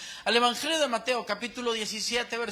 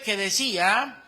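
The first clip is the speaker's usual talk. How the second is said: slow, louder voice of God; preacher voicing God from the cloud, slow and louder; 6 dB louder, slower than usual. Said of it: "una voz desde la nube".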